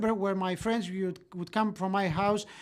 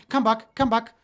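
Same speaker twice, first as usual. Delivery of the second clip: dad calling his son back, louder; retold fatherly shouting; 2 semitones higher, 5 dB louder than usual. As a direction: imitate a father's insistent call. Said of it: "your father is shouting".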